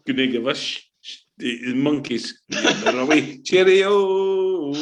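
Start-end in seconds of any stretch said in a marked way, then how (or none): 3.4-4.7 cheerio through a laugh; laughing farewell. Real, not acted. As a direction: wave them off, laughing. Waving off opponents.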